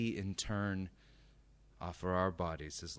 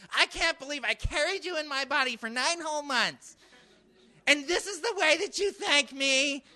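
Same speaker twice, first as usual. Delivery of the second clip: loud, high-pitched guilt-trip rant; ranting mother; 7 dB louder than usual. Acted. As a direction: scold like an outraged mom. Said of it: "when she does something like this".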